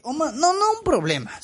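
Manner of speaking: sudden high catch on "no, no un problema"; startled mid-sentence correction; self-correction. Real, not acted. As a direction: leap up in pitch as you catch your own slip.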